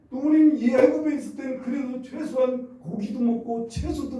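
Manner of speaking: preacher imitating grumbling Israelites; irritated complaining. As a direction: voice the people's petulant complaint. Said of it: "하고 막 짜증을 내고".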